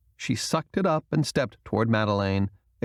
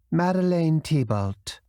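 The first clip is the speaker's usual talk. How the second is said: voice cracking; 6 semitones higher than usual. A narrator's reading. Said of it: "her voice cracking around her Queen's English accent".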